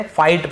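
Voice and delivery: फाइट with no G sound; silent G. Shown as a demonstration. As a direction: say फाइट as "fite". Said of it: "यहाँ पर भी जी silent है".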